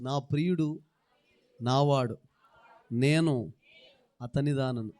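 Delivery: loud, each phrase broken off and spoken upward; declaring upward. Shown as a demonstration. Preacher showing the congregation how to proclaim it, loud and upward. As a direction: say it looking up to heaven, word by word. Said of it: "ఈ మాట చెప్పండి ఇలా పైకి చూస్తూ".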